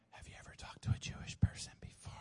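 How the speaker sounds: quick, whispery question to God; hushed prayer. Retold or imitated. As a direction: ask it under your breath, quickly. Acted prayer asking God, hushed.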